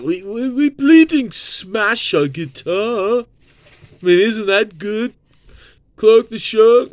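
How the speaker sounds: high, far-off mock British rocker voice; the Who mocked. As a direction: ham up a daft Cockney rocker. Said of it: "the Who are like".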